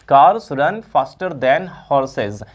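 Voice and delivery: very slow, each word stretched out; slow dictation. Shown as a demonstration. Teacher dictating the next example to students. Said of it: "अगला है".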